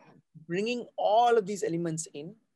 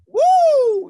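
very high, loud "woo" whoop; head voice; 15 dB louder than usual. Shown as a demonstration. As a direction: send a ringing, high hoot up into the head. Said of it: "where your voice resonates in your head".

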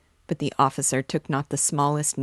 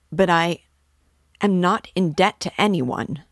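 louder, higher indignant outburst; loud protest; 3 semitones higher, 5 dB louder than usual. A narrator's reading. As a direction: burst out denying the debt. Raskolnikov protests the debt claim.

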